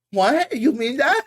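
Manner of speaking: high, whiny incel voice; neckbeard voice. Retold or imitated. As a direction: squeak it out like a basement neckbeard. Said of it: "Is that your neckbeard voice?".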